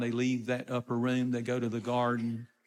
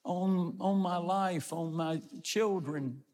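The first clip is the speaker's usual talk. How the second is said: slow, higher-pitched solemn swearing; swearing an oath; 3 semitones higher, slower than usual. Acted. Peter swearing to bystanders he doesn't know Jesus, emphatic oath. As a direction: swear it slowly, drawing out each vow. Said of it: "a, a swearing".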